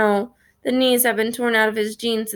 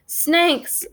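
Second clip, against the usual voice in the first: warning yell; 7 semitones higher than usual. A narrator's reading. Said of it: "one of the K-Bones yells".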